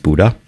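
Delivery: Bodø said as "Buddha"; local pronunciation. Shown as a demonstration. Radio host showing listeners the Norwegian town's name, local pronunciation "Buddha". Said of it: "with the accent, it's pronounced".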